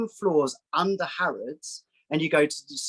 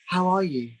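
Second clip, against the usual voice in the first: lightly put-on higher greeting; re-enacted smiley phone voice, raised; slightly higher voice; 4 semitones higher than usual. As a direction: lift the voice a little, retelling a polite phone greeting. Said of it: "my voice slightly changed to a higher".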